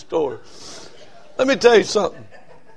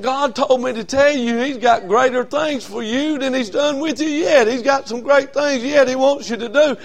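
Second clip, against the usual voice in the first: prophetic declaration; 6 semitones higher than usual. Retold or imitated. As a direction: deliver it like a prophecy. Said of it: "She said".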